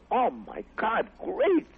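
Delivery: high, bursting with excitement; delighted surprise. Retold or imitated. Jamie thrilled at Carlin's free show, high excited voice. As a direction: squeal with delight at the news.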